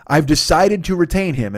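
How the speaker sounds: slow, solemn pretend announcement; mock official statement. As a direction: announce it like a grave board decision. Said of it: "by I've decided to retain him, I mean I begged".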